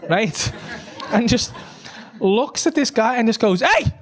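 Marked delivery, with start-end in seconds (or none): 3.6-3.9 bravado. Retold or imitated. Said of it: "ah, bravado".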